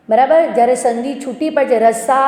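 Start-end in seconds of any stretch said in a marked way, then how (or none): 1.8-2.2 રસા with a long held "aa" at the end; રસા broken off on its long vowel; drawn-out final vowel. Shown as a demonstration. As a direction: stretch the સા in રસા. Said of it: "આનો ઉચ્ચાર થઈ ગયો".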